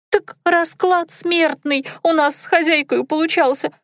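high, fast squeaky maid; squeaky girl voice. A narrator's reading. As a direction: chatter in a thin squeak. Dunka squeaking.

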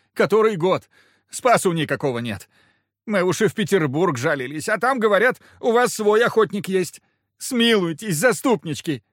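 high, loud begging whine; insistent whine. Acted. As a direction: keep whining for mercy. Petitioner begs, high whine.

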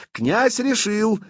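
high, long-drawn cry; shouted proclamation. A narrator's reading. Блуд cuts short the discontented murmur, shouting. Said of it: "закричал Блуд".

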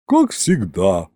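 low, drawn-out, mildly weary; resigned sigh. A narrator's reading. Chief accountant responds to the king, resigned sigh. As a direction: say it slowly on a light sigh. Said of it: "вздохнула главбух".

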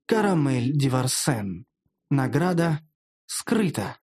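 slow, deliberate announcement; measured, spaced-out quest readout; system notification. Acted. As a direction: read it out as an impersonal game message. Narrator reads system quest message.

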